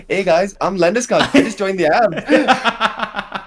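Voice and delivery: put-on laughing through a Swedish accent; slow, loud Swedish accent impression. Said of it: "in his Swedish accent".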